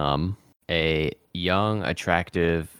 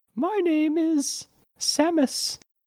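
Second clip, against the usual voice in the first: very high, very slow put-on woman's voice. Asked for a character's name, answering in a put-on woman's voice. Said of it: "Can I do a woman voice? I'm trying".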